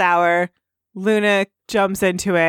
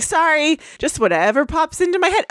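Pinkie Pie voice; 8 semitones higher than usual. Acted. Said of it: "She's like".

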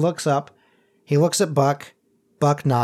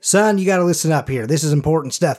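gruff tough doctor. Shown as a demonstration. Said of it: "a little more gruff and tough".

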